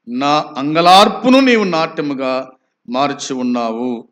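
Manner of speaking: ringing verse reading with rising phrases; declamatory scripture reading. Acted. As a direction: proclaim the psalm in swelling phrases.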